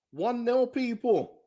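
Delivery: giddy announcement. Real, not acted. Streamer tells his viewers the team leads, giddy announcement. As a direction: tell the viewers the score, barely containing glee.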